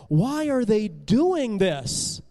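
slow, loud anguished question; distressed protest. Acted. Benjamin with tears in his eyes, distressed protest. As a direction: stretch it out in dismay.

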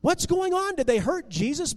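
high, anxious question; alarmed questioning. A narrator's reading. Benjamin asking the crowd about Jesus, alarmed. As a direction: ask it urgently, pitched high with worry.

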